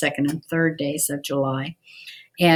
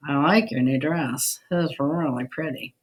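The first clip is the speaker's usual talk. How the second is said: mock a friend's dress with a sour, dry compliment; sarcastic. Shown as a demonstration. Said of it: "which one I was being sarcastic".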